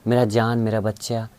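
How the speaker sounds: affectionate. Shown as a demonstration. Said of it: "ऐसे प्यार से बोला जाता है".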